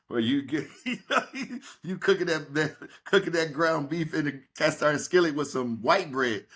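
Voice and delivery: lightly voiced Eddie Murphy bit, laughing through it; a hint of Eddie Murphy's welfare burger routine; imitating Eddie Murphy. Retelling Eddie Murphy's bit to the host, laughing. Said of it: "like Eddie Murphy said".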